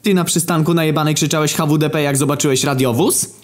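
high put-on interrogator voice; pot-bellied old cop. Old riot cop accusing the detained narrator, high put-on voice. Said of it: "przyszedł policjant, taki, kurwa, brzuchaty".

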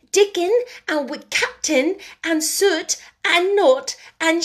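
put-on proud girl in broad Yorkshire. A narrator's reading. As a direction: lay the Yorkshire on as thick as she can. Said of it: "She said it as broadly as she could".

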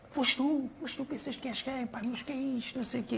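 mock scolding from a red-faced coach; angry coach. Player mimicking the coach scolding the squad after the crash, mock angry.

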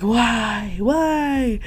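mock grieving. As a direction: wail it out like a bereaved king, overdone. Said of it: "goes into grieving again".

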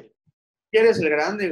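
dragged out slow for drama; slow motion. Retold or imitated. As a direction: stretch it out slowly. Slowed for dramatic effect.

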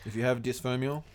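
talking with a chip in mouth; mouth full. Real, not acted. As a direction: say it through a mouthful of chips. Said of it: "I said it with, like, a chip in my mouth".

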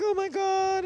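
high-pitched mock panic; imitating freaked-out old lady. Retelling the gas station bump, mock freak-out. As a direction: squeal it like a startled old lady. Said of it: "old lady freaked out".

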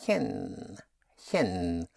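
"chen" with a soft German ch; isolated ch syllable. Shown as a demonstration. Teacher demonstrates the second syllable, "chen" said separately. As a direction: say "chen" alone, ch as a hissed palatal sound. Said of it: "the C H".

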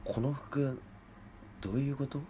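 high, pushy complaining customer; whiny, entitled shop customer; demanding customer. Acted. Improv angry customer role.

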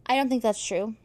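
ordinary talk, nothing marked

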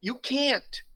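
high, loud exclamation; emphatic. Real, not acted. Pastor to discouraged listeners, high emphatic good. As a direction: punch it like a preacher.

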